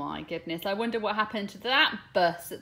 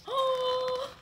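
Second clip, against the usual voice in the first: dramatic gasp. Acted. Bus loses a wheel in story.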